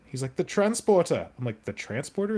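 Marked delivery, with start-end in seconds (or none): 0.4-1.3 loud, high mock Welsh accent; Welsh accent impression. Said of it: "it was just a Welsh accent". 1.7-2.4 put-on high-pitched puzzled question in plain accent; baffled echo.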